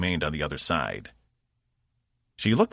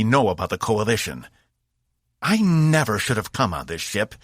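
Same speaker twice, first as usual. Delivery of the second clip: raised, contemptuous warrior voice; a proud fighter betrayed and furious; angry alien warrior; 6 semitones higher, 4 dB louder than usual. A narrator's reading.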